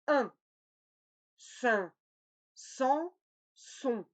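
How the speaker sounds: all four series of nasal vowels said distinctly; nasal review. Shown as a demonstration. Teacher reviewing every nasal series. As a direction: run back through each nasal series. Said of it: "On le répète encore une fois".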